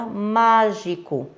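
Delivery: mágico with force on MÁ; stress on first syllable of mágico. Shown as a demonstration. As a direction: hit the MÁ in mágico harder. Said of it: "Eu falei com mais força".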